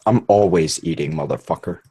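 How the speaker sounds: talking with food in mouth; mouth full. Real, not acted. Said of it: "Chew, then talk".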